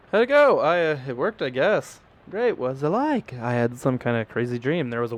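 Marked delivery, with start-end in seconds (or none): 0.1-3.3 higher, bright-eyed friend asking; lightly voiced curious friend; eager friend voice. Friend asking how the dream went, higher eager voice.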